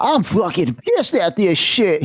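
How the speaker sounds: mock an angry pro wrestler cutting a promo; imitating a Twitter troll doing a wrestler voice; Rowdy Piper voice. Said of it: "He had that honky tonk Rowdy Piper, Hacksaw Jim Duggan shit voice going".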